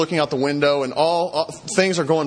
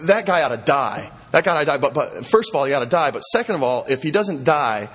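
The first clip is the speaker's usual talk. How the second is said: fired-up anger; 2 semitones higher than usual. Retold or imitated. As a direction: retell an indignant king laying down the law. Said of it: "David gets really fired up. He gets mad".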